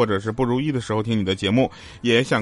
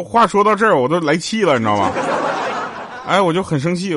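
mock anger; 6 semitones higher, 3 dB louder than usual.

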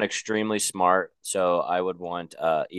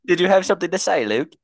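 laughing; 11 semitones higher, 5 dB louder than usual. Pretend. Mock teasing in accent.

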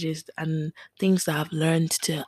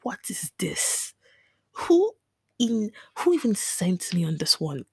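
incredulous outburst. Retold or imitated. Crying over her essay, she replays asking who sent her, in incredulous disbelief. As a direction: act out baffled despair mid-essay. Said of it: "just sitting down there just like".

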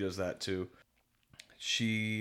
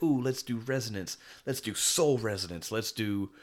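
lightly acted excitement, pitched up; mock eagerness; 3 semitones higher, 3 dB louder than usual. Podcaster mimicking characters calling their big power-up, mock eagerness. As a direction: imitate eager anime heroes proposing a power-up.

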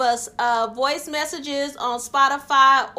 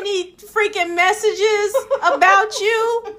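excited; 4 semitones higher than usual. Real, not acted. Excited about fan messages.

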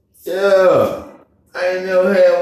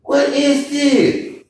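retold shock; 7 semitones higher, slower than usual. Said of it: "I was like".

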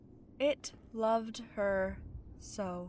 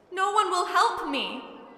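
put-on high, louder, tearful girl; through tears; 8 semitones higher, 5 dB louder than usual. A narrator's reading. Crying girl to the old man, tearful plea. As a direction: plead in a raised, upset girl's voice. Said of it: "she answered through her tears".

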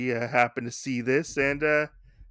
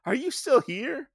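pitched-up, puzzled question; mock surprised master; 6 semitones higher than usual. Master finding the boy outside all night, baffled. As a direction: act baffled he's still there. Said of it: "Katsuchi's like".

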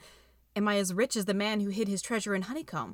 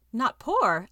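louder, astonished echo; surprised, pushed louder; in surprise; 3 semitones higher, 6 dB louder than usual. A narrator's reading. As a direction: catch the words back in disbelief. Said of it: "I asked in surprise".

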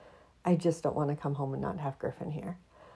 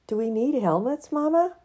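put-on light child voice, rising; child asking; 8 semitones higher, 8 dB louder than usual. Kids asking mama, lightly voiced child. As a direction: ask like an eager kid. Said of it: "children's quote in piece".

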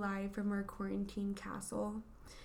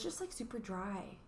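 whispering; 7 dB quieter than usual. Real, not acted. Whispered complaint.

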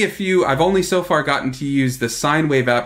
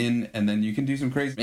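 chopped-up granular resampled voice; grainy dissolving voice; 5 dB quieter than usual. Shown as a demonstration. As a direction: voice sampled and granulated, breaking apart. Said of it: "So somehow that's me talking".

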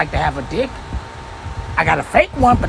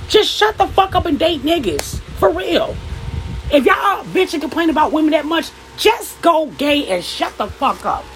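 exasperated; 4 semitones higher than usual. Real, not acted. Angry rant at men.

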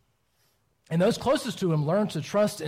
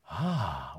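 soft awed ah; 9 semitones lower, 5 dB quieter than usual. Retold or imitated. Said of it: "to the point where you went".

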